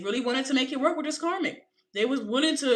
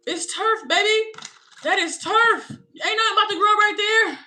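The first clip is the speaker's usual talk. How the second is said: loud, high insistence that it's just turf; emphatic; 8 semitones higher, 5 dB louder than usual. Real, not acted. To the viewer about a dead relationship, emphatic and loud. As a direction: hammer home that nothing grows there.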